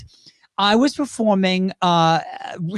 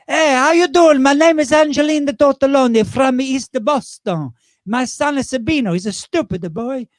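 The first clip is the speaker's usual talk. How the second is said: high, loud East Boston widow; Angelina Tortelloni voice; 6 semitones higher, 4 dB louder than usual. Acted. Drag character greeting the bingo crowd, high loud East Boston widow. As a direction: belt it out as a brassy Boston Italian widow. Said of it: "a character called Angelina Tortelloni".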